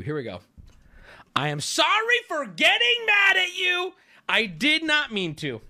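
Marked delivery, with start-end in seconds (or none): 1.4-5.6 high, loud mock apology, easing off; backpedaling apology. Streamer reads man's apology to Ruby, high hammed-up backpedaling. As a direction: wail the apology, then come down. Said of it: "This is him backpedaling".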